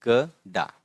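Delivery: slow, split into syllables; spelling out खेकड़ा syllable by syllable. Shown as a demonstration. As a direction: sound out each syllable slowly. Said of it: "ये क्या है?".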